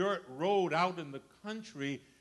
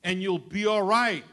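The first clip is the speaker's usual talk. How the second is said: God's voice again; 5 dB louder than usual. Retold or imitated. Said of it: "I said".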